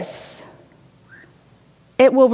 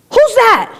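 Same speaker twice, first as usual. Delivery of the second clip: put-on child calling out; 10 semitones higher, 3 dB louder than usual. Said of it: "the little kid goes".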